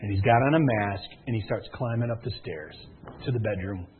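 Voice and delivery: low, soft thriller storytelling; hushed suspense. Retold or imitated. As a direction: build dread quietly, step by step. Suspense build-up of break-in scene.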